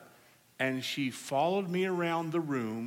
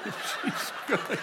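laughing; slower than usual. Real, not acted. Preacher laughing at story.

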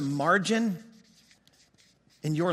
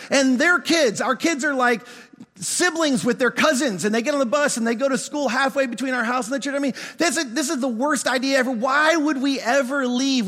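worked-up, mildly exasperated protest; retelling an indignant rant; retold indignant rant; 2 semitones higher than usual. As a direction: pile up the objections, a bit incredulous. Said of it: "She didn't listen to any of my rant".

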